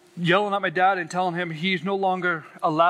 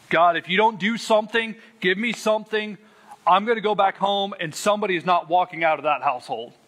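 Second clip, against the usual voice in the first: higher-pitched angry plea to God; retold angry outburst; 4 semitones higher than usual. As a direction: let God have it, reenacted. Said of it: "I let God have it".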